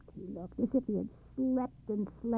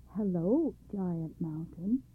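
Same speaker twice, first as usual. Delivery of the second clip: respectfully; slower than usual. Acted. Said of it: "said Machbel respectfully".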